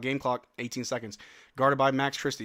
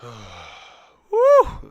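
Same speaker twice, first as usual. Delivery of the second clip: relieved whoop; 10 semitones lower than usual. Real, not acted. Releasing tension after free throw.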